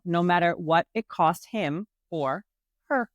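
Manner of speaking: dramatic back-cover read; book blurb reading. Acted.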